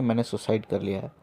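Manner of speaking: put-on grieving old man. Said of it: "तो वो रो, रो पड़े".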